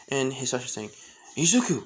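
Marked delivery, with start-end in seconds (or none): 1.4-1.8 high, loud panicked yell; urgent shout. Acted. Father yelling at son to flee, panicked shout. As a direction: shout the alarm at your son. Father urging escape from blast.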